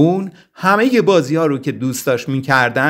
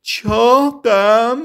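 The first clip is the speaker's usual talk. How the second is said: slow, higher, insulted bear; slow indignant creature voice, pitched up; offended grumble; 7 semitones higher, much slower than usual. A narrator's reading. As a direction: act hurt, drawing the question out slowly. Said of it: "قرید".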